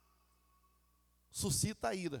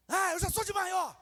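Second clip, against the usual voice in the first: louder, higher defiant retort; defiant teenager; 5 semitones higher, 6 dB louder than usual. Retold or imitated. Son answering his parent back, loud and defiant. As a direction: talk back like a cheeky son. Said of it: "o filho pega".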